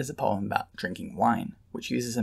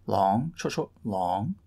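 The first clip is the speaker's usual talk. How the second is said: long short syllables chanted with rising tune; scanning the pattern aloud; rhythm recited; slower than usual. Shown as a demonstration. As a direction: chant the metre, leaning on each long. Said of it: "The choriamb".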